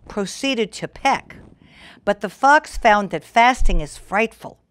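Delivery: lilting rhyming storybook read; story narration. A narrator's reading. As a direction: read the verse to children. Reads rhyming fable aloud.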